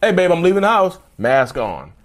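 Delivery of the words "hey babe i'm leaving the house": high sugary voice, all charm; sweet public voice. Retold or imitated. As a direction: chirp it sweetly like a nice partner. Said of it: "They're like".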